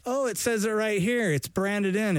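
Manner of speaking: high, delighted guest voice; impressed dinner guest. Pretend. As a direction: gush over the corn in delight. Same imagined guest praising corn.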